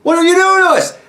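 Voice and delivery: hammed-up high wail of betrayed union guys; whiny auto workers. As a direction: plead like betrayed workers in a panic. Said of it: "the auto workers are like".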